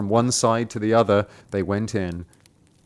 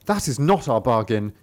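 indignant rooster; 6 semitones higher, 4 dB louder than usual. Acted. Cock refusing, voiced.

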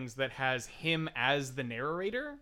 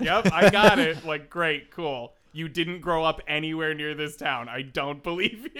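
sarcastic; 7 dB louder than usual. Retold or imitated. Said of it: "And I'm like".

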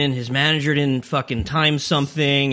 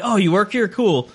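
lightly faked celebrity accent; a hint of a bad impression, pitched up; a famous musician; 6 semitones higher than usual. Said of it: "I'm gonna stop the accent now".

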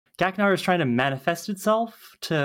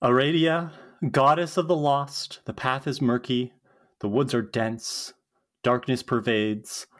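spell incantation; 3 semitones lower than usual. Acted. Willow casts a spell.

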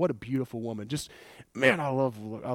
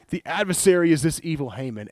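accusing queen; 3 semitones higher, 5 dB louder than usual. Retold or imitated. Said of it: "Esther answered".

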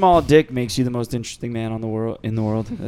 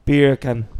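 British accent. Shown as a demonstration. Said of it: "if you say beer can in a British accent".

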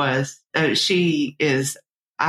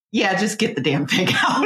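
higher, through laughter; retold exasperated plea; 4 semitones higher than usual. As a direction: beg to be rid of it, half laughing. Retells desperate plea, laughing.

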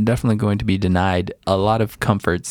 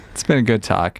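laughing. Real, not acted. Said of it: "Why are you laughing?".

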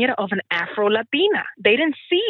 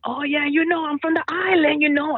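breezy, higher, proud tone; proud island flair; 7 semitones higher than usual. Retold or imitated. Teacher voicing her proud reply to curious students, breezy. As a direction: toss it off like island pride. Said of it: "and they're like".

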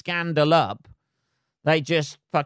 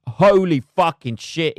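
real surprise; 6 dB louder, slower than usual. Real, not acted. Surprised he is on Twitter.

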